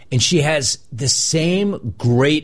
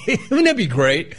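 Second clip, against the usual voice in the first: ordinary delivery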